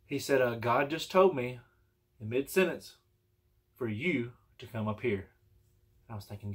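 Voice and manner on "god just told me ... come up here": slow, deliberate quote of the preacher; measured retold announcement. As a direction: relay it slowly, as a statement. Retelling the preacher's message to him.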